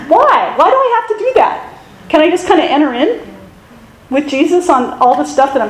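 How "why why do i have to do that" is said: high whiny protest with a laugh; mock complaining. Pastor mocking his own complaint about chores, whiny. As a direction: whine like a kid told to run errands. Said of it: "I'm just complaining".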